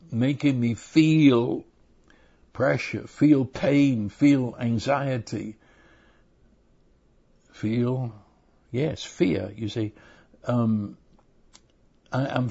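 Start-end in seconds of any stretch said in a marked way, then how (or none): none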